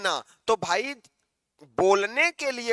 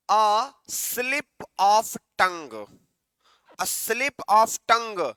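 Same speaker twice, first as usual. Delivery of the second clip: very slow, each word drawn out; slow dictation; much slower than usual. Shown as a demonstration. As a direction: read the idiom slowly for the class. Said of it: "जुबान का फिसल जाना".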